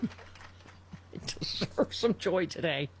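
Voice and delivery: slow, whispery plea; hushed. Real, not acted. Host consoling themselves after an upsetting story, hushed and slow. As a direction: half-whisper it, drawn out slowly. Worn out, claiming some joy.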